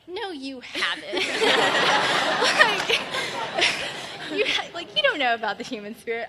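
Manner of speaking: laughing through a mock flat denial; can't keep a straight face saying no; laughing disbelief. Telling the girl she hasn't read it, laughing.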